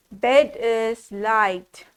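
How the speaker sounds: slow deliberate wrong answer; drawn out, teasing wrong guess. Shown as a demonstration. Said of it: "Bed, no".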